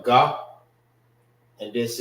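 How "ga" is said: "ga" as a lone GAH; "ga" with open ah; syllable by itself. Shown as a demonstration. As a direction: say "ga" louder, standing alone. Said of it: "This is pronounced by itself".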